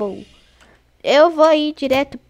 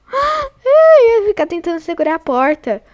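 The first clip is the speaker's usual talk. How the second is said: a higher, louder cry of dismay; upset wail; 4 semitones higher, 5 dB louder than usual. Real, not acted. Gamer wailing as a teammate gets caught, upset. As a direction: whine it like the loss really hurts.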